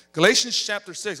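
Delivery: loud, ringing call of the verse; booming announcement. Real, not acted. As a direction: belt it out to wake the room. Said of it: "Oh, man, that was a good one. Woke you up".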